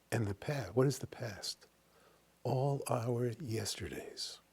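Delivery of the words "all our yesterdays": slow whispered "All our yesterdays". Shown as a demonstration. Teacher whispering the line about the past, slowly. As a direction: let it fall away in a slow whisper.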